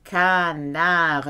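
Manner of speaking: Canard said the French way, stress at the end. Shown as a demonstration. Teacher models Canard for learners, clear French. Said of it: "A duck in a can".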